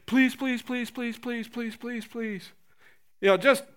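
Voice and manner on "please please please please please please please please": pleading that fades from full voice to barely audible; beg, then let it die away; mock begging. Preacher mocking believers begging God, fading plea.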